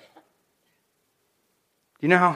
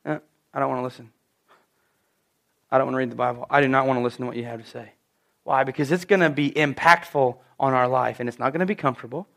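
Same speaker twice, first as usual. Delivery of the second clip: much softer, fast grumble; mimicking a stubborn believer; reluctant mutter; 6 semitones lower, 8 dB quieter, faster than usual. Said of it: "voicing reluctant believer".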